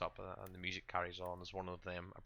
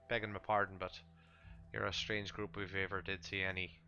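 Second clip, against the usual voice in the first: lightly voiced camp host, chatty and deferential; a hint of a polite Vistani traveler. Vistani explaining the camp to strangers, lightly in character.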